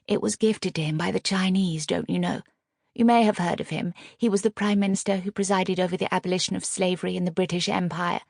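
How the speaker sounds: airy, showing-off society wife; haughty lady. Acted. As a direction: lecture it like a snob. Agatha shows off her knowledge.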